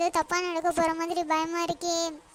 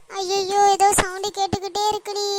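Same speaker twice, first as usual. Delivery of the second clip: loud, higher frightened wail; frightened cry; 3 semitones higher, 6 dB louder than usual. Acted. Mother hears the ghost's sounds, loud frightened wail. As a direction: cry out at the strange noise.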